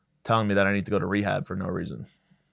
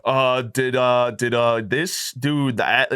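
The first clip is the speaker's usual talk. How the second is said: stumbling reading; much slower than usual. Retold or imitated. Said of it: "I was like".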